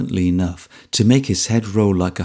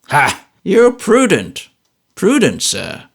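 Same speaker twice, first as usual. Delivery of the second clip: cry out; 7 semitones higher, 4 dB louder, slower than usual. A narrator's reading. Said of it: "cries Grandfather Smallweed".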